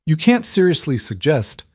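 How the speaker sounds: high, scandalized protest. A narrator's reading. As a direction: sound shocked at the idea.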